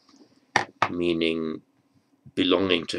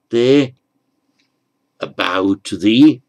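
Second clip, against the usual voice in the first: slow emphatic gloss; 8 dB louder, much slower than usual. Shown as a demonstration. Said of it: "translating namaste".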